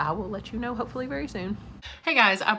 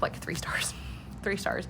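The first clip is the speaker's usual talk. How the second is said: whispering; 6 dB quieter, slower than usual. Real, not acted. Second half verdict, muttered.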